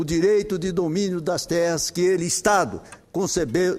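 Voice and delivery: measured oratory with emphatic phrase openings and falling closes; formal parliamentary speech. Real, not acted. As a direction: read out firmly from the rostrum, each phrase projected. Reads a prepared Senate speech.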